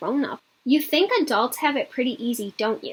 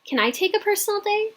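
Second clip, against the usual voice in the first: put-on eager child; 9 semitones higher than usual. A narrator's reading. Child eagerly asks mother.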